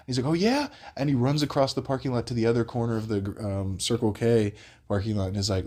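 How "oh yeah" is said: high rising imitated challenge; mock screaming. Crackhead challenging across the parking lot, high mock scream. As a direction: throw it back high like a ranting man. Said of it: "this dude's in his boxers screaming".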